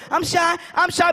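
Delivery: put-on slow, high child voice; hammed-up coy kid, high and slow; shy little girl. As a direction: imitate a bashful preschooler, drawn out. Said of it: "She's shy to the music".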